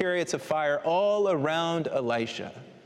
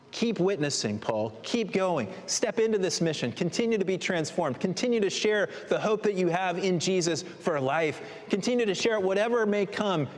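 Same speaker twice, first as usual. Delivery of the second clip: rising exhortation; 4 semitones higher than usual. Acted. Preacher urging Paul on, rising.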